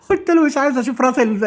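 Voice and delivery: laughing as she tells it. Real, not acted. Amused retelling her chicken order.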